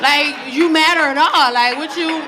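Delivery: a light parody of the daughter's 'like' talk; mocking teen talk. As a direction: mimic her teen slang back at her. Mother mocks daughter's talk.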